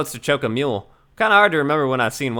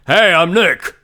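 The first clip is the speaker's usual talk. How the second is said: louder, higher hello to wake the mic; 4 semitones higher, 6 dB louder, much slower than usual. Acted. Nick repeats his name louder for the camera. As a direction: push the greeting louder. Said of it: "Maybe I'm not saying it loud enough".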